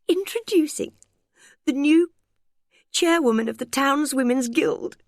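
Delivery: very high announcement breaking into gulps and squeaks; mock-grand introduction choked by laughter; squeaky with laughter. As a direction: try to announce grandly while giggling uncontrollably. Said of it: "it came out as a series of gulps and squeaks".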